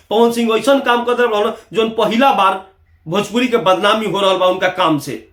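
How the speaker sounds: normal talking voice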